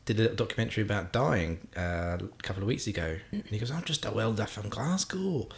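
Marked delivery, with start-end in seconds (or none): 3.7-5.5 put-on slow Scottish accent Billy Connolly; slow Glasgow accent impression. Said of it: "That's my amazing Scottish accent".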